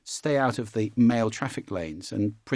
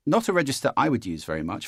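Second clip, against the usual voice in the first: ordinary talk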